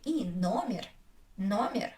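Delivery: "и", then "номер" as NO-meer; unstressed е as и. Shown as a demonstration. Teacher explaining the answer, "номер" with unstressed ee. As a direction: stress the o of "номер", ee after. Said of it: "so I say".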